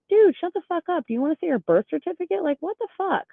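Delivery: high-pitched, exasperated comeback; indignant storytelling, voice pitched high; retold pissed-off retort. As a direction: re-enact snapping at a heckler, pitch way up. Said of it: "I was pissed".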